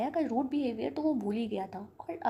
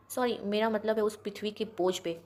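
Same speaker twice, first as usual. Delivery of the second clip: angry grandfather. Acted. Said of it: "दादाजी ने गुस्से में".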